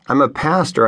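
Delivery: firm, steady claim of authority; authoritative. Retold or imitated. Pastor facing down a deputy, with mustered authority. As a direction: plant your feet and state it. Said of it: "with all the authority I could muster".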